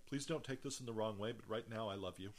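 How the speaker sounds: mean every word, gently; sincere. Retold or imitated. Telling the little witness he loves her, softly sincere. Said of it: "with all sincerity".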